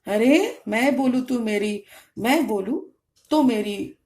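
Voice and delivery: lightly acted arrogant husband, emphatic; a touch of mock arrogance. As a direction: lay down the law like a self-important husband, mildly mocking. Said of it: "आपके अंदर ये arrogancy था".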